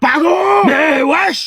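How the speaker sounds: high, loud disbelieving outburst; loud parental shock; shocked shout. Acted. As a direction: exclaim in scandalized disbelief. Parents shocked by son's confession.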